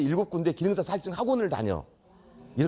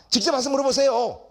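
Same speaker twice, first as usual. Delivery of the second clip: louder, higher, a brusque cop cutting him off; curt detective, louder; 7 semitones higher, 5 dB louder than usual. Retold or imitated. Detective to teacher on the phone, curt and louder. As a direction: bark it like a cop fed up.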